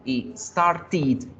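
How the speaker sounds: started said ending in "id". Shown as a demonstration. Teacher shows the id ending of started, as an extra syllable. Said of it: "con el sonido de id".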